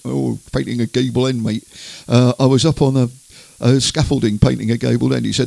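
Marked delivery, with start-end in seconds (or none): 0.0-1.6 hammed-up Andover country accent. Shown as a demonstration. Presenter mimicking the singer up on scaffolding, Andover accent. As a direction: put on a rural Hampshire accent. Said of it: "talking in an Andover accent".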